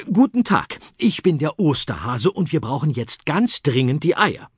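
a polite, busy Easter Bunny. Acted. Easter Bunny speaks to hens.

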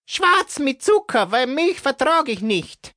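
high, scratchy smoker's voice; a smoker's rasp on every word. Acted. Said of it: "mit kratziger Stimme".

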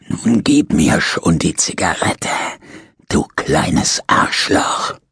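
a lightly voiced old convict cursing slowly; mild slow snarl. Dying prisoner curses his nurse, slow and understated. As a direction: spit out the insult without raising the voice much.

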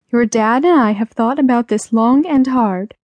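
a hint of a careful mother; gently put-on mother's voice; lightly voiced mother. Mother explaining a decision to her child, lightly voiced.

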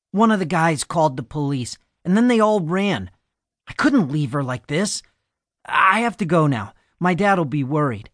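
put-on a touch of a jittery kid pleading to leave; lightly voiced scared teenager.

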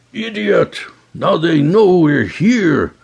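high furious rebuke, slowing; angry scolding. Acted. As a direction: snap at him in fury. Leader furious at clumsy pirate.

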